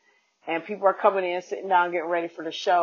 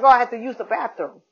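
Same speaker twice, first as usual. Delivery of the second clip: higher, louder mock Asian accent for the Uber driver; imitated Asian accent; 6 semitones higher, 7 dB louder than usual. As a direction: put on the driver's thick Asian accent, loud and high. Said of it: "Accent super deep".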